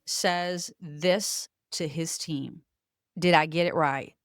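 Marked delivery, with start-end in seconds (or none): 3.2-4.1 David. Retold or imitated. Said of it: "I'm gonna try to do David".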